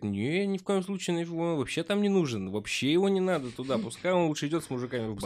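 high mock-knowing women's voice; experienced women's advice. Retelling what seasoned mothers say, a mock-knowing voice. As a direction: voice the seasoned moms dismissing husbands. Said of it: "они говорят".

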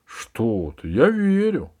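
jumping high on the last words; hasty reassurance. A narrator's reading. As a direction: hurry to say you believe. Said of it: "торопливо сказал Джонни".

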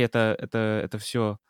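usual speaking voice

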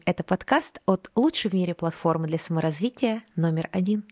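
breathy Litvinova-style sultry purr; томный голос. Acted. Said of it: "вот таким странным томным голосом". (томный голос Ренаты Литвиновой)

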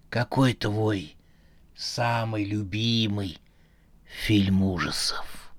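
low, slow robotic voice; slow, low, machine-like question; metallic voice. Acted. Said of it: "металлический голос".

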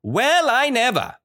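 high, bright exclamation of delight; delighted cry. A narrator's reading. Reading to a class, the old woman's delighted cry. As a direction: cry out in happy surprise. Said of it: "she cried, full of smiles".

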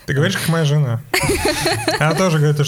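chuckling through the words; laughing. Real, not acted. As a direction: laugh while saying it. Laughing at a joke about his wife.

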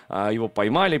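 normal talking voice

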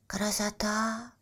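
soft, slow breathless wonder; awed gasp. Acted. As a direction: gasp at the view. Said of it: "ахнул Бельчонок". (восхищённый вздох)

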